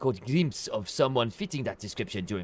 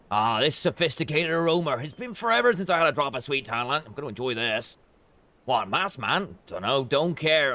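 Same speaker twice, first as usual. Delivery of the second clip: higher, relishing then dismissive; tea-loving grump; 7 semitones higher, 5 dB louder than usual. Acted. Streamer voicing a crusty tea lover, raised pitch. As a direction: savour the tea, then scoff.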